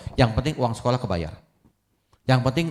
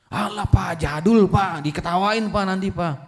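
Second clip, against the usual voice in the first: put-on higher, complaining teen voice; whiny son; 7 semitones higher than usual.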